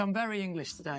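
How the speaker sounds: a put-on plummy British voice; hammed-up very English accent; mock posh English. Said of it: "That was the most British thing".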